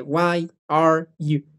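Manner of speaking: "Why, are, you" slowly with breaks between the words; cut-up words. Shown as a demonstration. Teacher shows the cut to avoid, words broken apart. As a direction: separate each word of "Why are you?". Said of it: "que no se corte".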